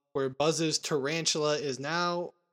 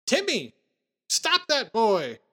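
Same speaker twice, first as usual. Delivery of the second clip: higher, loud call for Timmy; retold yell; 6 semitones higher, 4 dB louder, slower than usual. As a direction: call out to stop the boy. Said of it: "she yells".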